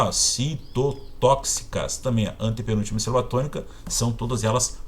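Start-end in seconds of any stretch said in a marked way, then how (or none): 0.1-2.0 "citotóxicas" slowed, stress on "tó"; syllable demo. Shown as a demonstration. Teacher showing the class the stressed syllable, slowly. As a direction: spell out "citotóxicas" syllable by syllable, leaning on "tó". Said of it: "tem a antepenúltima sílaba tônica".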